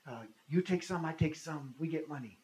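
imitated Russian speaker in halting English; broken-English Russian. Russian stranger proposing to share found money, broken English. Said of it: "in very broken English".

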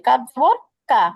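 কা said thin and light, lips spread; light Arabic kaf, unrounded. Shown as a demonstration. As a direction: keep কা thin and forward in the mouth. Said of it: "কাফ পাতলা করে".

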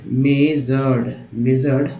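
"मेजर्ड" slow, in two long syllables; broken-down pronunciation. Shown as a demonstration. Teacher repeating a word for learners, slow split "मेजर्ड". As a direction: stretch "मेजर्ड" as may-zard. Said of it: "ऐसे तोड़ के पढ़ना है".

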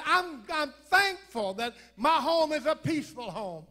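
rising preaching. Real, not acted. Preacher building to a climax.

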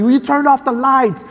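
high-pitched imitation of an upset kid; mock tearful yell. Seven-year-old stuck in the dark to dad, mock upset yell. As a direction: plead crossly like a scared little boy. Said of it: "I yell back. I'm all mad, crying".

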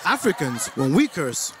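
usual speaking voice

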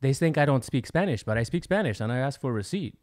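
imitated Jamaican accent; retold Jamaican accent; thick Jamaican-style accent. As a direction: mimic a Jamaican man learning. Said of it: "Jamaican, some kind of accent".

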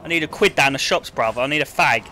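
lightly exaggerated Cockney; Cockney accent. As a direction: put on a local lad's Cockney accent. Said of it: "Can I do my best Cockney?".

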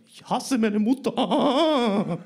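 high, loud, drawn-out wail; hammed-up tantrum cry; bawling child. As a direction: scream it slowly like a sobbing kid. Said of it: "Ich so".

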